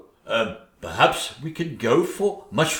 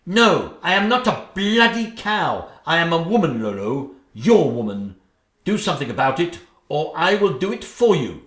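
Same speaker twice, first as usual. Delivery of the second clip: loud indignant outburst; insist, raising the voice; wife demanding the husband act, loud and indignant; furious; 2 semitones higher, 4 dB louder than usual. Acted.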